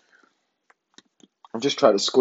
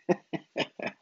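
soft breath-only giggle; amused snigger; 9 dB quieter than usual. Real, not acted. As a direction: snigger quietly at what you've made. Laughs at the messy spoonful.

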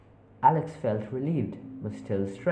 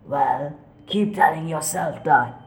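slow, mocking eerie voice; ghostly voice; 5 semitones higher, 6 dB louder than usual. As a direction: taunt slowly. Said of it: "they responded".

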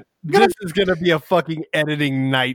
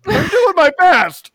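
trying not to laugh; 13 semitones higher, 4 dB louder, slower than usual. Real, not acted. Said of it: "I'm trying to be professional".

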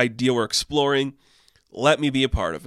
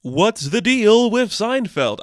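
much higher and louder, slow standup delivery; Seinfeld standup bit; 9 semitones higher, 5 dB louder, slower than usual. Pretend. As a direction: open like an observational comic, drawn out. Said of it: "I don't know why I'm doing it".

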